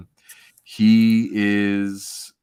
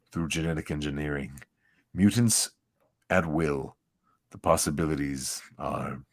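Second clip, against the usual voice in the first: villain voice. Acted. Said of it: "for this voice".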